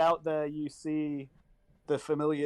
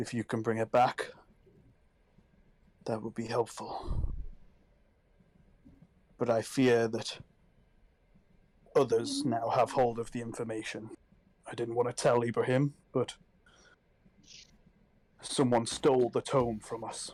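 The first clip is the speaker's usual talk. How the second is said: speaking in a whisper; 4 semitones lower than usual. Pulling a player aside as they go: whispering. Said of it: "and whispers to you as you go".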